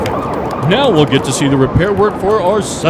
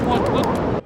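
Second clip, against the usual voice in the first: stunned gasp; 8 semitones higher, 7 dB quieter than usual. Acted. Reporter stunned again.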